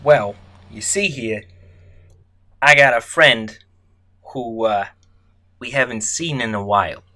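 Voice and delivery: lightly voiced tough guy; a hint of a mob heavy; gangster voice. Georgie pressing the nervous detective, mild mobster voice. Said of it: "His voice is shifting right before our eyes".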